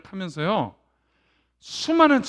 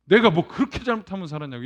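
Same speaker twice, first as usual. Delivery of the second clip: angry. Retold or imitated. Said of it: "막 화내면서".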